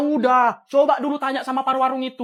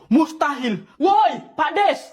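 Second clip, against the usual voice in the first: shocked shout. Acted. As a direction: yell for the neighbour. Shocked, then calling the neighbour. (teriakan memanggil tetangga)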